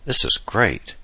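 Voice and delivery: thrilled by the view; beach-struck exclamation; excited. Acted. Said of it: "Adam exclaimed".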